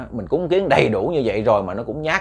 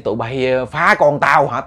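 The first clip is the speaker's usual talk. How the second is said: loud furious threats at the ghosts; angry cursing; 2 semitones higher, 4 dB louder than usual. Retold or imitated. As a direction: curse them, building to a roar. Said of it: "Ông chửi".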